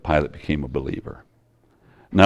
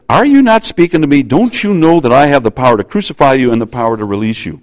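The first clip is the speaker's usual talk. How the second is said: louder, fast exasperated demand; a governor losing patience with a silent prisoner; mock-frustrated official; frustrated Pilate; 4 semitones higher, 4 dB louder, faster than usual. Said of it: "Pilate got frustrated".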